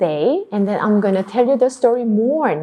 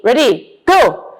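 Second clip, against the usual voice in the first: ordinary talk, nothing marked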